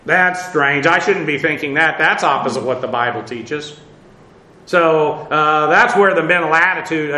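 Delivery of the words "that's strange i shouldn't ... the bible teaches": inner self-check. Pretend. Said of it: "immediately identify it".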